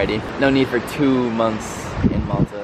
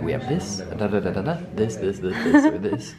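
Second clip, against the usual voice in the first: waiter reciting the menu. Retold or imitated. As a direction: imitate a waiter's endless list, pitch climbing at the end. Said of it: "They're like".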